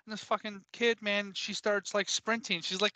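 ordinary talk

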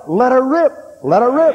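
high, loud "Let her rip." flung out; defiant shout. Real, not acted. Preacher shouting defiance at fear of the bomb.

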